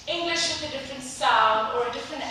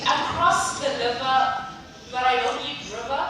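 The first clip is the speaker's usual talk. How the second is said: swapped R and L, playful; light Malawian accent with a laugh; mock Malawian swap, laughing; Malawian English accent. Shown as a demonstration. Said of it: "swap their R's with L's".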